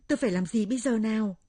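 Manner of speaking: loud, distressed question; desperate wail. Acted. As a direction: cry it out helplessly. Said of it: "kêu gào thống thiết".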